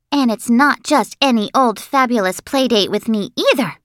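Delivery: high-pitched and dramatic, stretching it out; excited bragging girl. Acted. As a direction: build suspense like a show-off kid.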